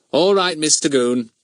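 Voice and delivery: high, loud schoolboy voice; cheeky boy. A narrator's reading. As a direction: play the eager helper. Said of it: "he said".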